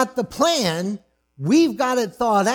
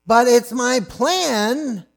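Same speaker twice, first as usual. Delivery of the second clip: mock tantrum; 5 semitones higher, 3 dB louder, slower than usual. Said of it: "throwing a, fit".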